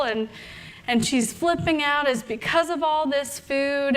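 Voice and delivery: lightly voiced know-it-all coach, scandalised; judgy health coach. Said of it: "the health coach in me is like".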